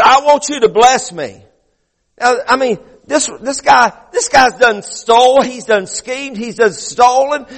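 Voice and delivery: high, driving sermon delivery; fervent preaching. Real, not acted. Preacher urging the congregation about Jacob wrestling God, fervent preaching. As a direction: preach it hard, stretching the key words.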